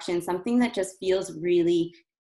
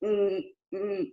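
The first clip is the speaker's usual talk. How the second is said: tight, squeezed hums; strained hum. Shown as a demonstration. Coach showing a strained hum to avoid. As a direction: push the hum from the throat. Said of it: "it would sound very strained".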